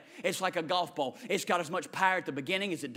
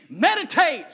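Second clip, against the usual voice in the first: lead the repeat; 9 semitones higher, 11 dB louder, slower than usual. Shown as a demonstration. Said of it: "Say that word with me".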